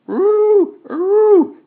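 a shrill, very high, loud honk; honking bleat. Acted. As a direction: bleat out like a headless bird crowing. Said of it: "honked and bleated".

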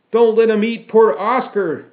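loud, high impassioned shout; acted rallying yell. A narrator's reading. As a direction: shout it to rouse a mob. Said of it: "I shouted".

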